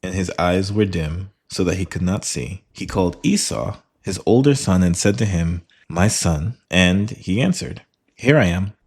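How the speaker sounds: measured, careful reading of the Bible passage; scripture reading. Acted. Reading scripture aloud to a study partner, measured. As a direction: read the verses aloud to the group, deliberately.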